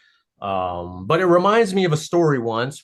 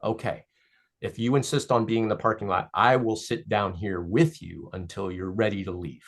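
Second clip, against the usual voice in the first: gentle reassurance; 3 semitones lower than usual. Acted. Source comforting message.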